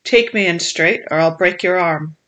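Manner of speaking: a touch of a sneer, with Take punched; lightly sneered menace; understated cruel sneer at the boy; sneering threat. Acted. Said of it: "he sneered".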